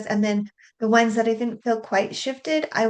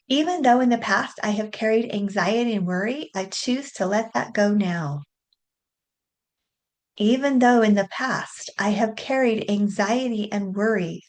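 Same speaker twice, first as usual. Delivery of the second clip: tapping affirmation. Acted. Reads tapping script aloud.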